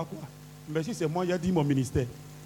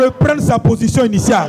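forceful prayer declaration; 4 dB louder, much faster than usual. Real, not acted. Leads repeated prayer declaration.

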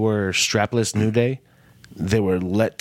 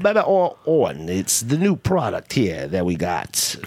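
Southern man. Pretend. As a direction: pitch a product in a Southern accent. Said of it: "like a Southern man".

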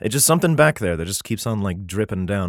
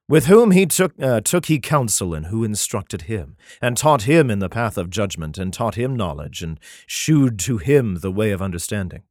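solemn, measured Bible reading; declaiming scripture, slowing at the end. Acted. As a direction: read it like a King James passage. Reads Isaiah aloud.

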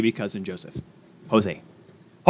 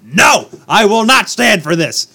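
mock indignant; 5 semitones higher, 4 dB louder, slower than usual. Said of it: "I go".

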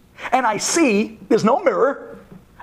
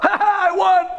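put-on much higher, gloating kid voice; triumphant kid; 12 semitones higher than usual. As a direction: crow over the win. Kid wins the game.

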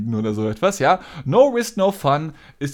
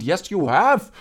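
insistent retort; 5 semitones higher, slower than usual. Retold or imitated. Back-and-forth argument.

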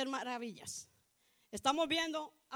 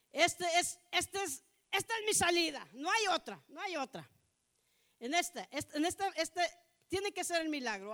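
raised, insistent, re-enacted desperate cry; 4 semitones higher, 4 dB louder than usual. Preacher voices the blind man's last hope, desperate cry. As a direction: plead loudly, as a last chance. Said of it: "Usted conoce un grito desesperado".

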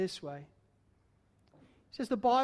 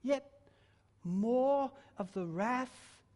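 hushed, slow questions; 4 semitones higher, 5 dB quieter, slower than usual. Acted. Dramatic questions in a quotation.

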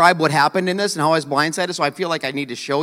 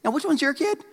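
bragging soccer mom; 4 semitones higher, 4 dB quieter than usual. Retold or imitated. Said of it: "the soccer mom who".

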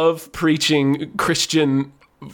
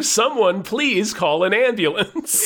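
mock scream; 6 semitones higher, slower than usual. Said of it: "while screaming".

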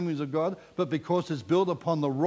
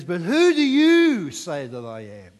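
pointed question; 7 dB louder, slower than usual. Acted. Jesus challenges his disciples.

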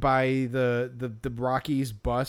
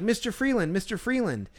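put-on kid yelling; 6 semitones higher than usual. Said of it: "he's like".

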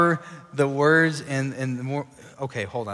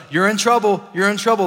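raised, inescapable voice of doom; booming out a warning over everything; loud accusing voice; 6 semitones higher, 5 dB louder than usual. Acted. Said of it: "a loud, audible voice".

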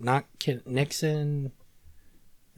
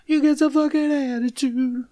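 sassy attitude voice; 13 semitones higher, 8 dB louder than usual. Pretend. Mock attitude voice.

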